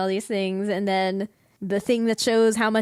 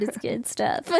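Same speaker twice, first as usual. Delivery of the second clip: whispered; 3 semitones higher, 5 dB quieter than usual. Shown as a demonstration.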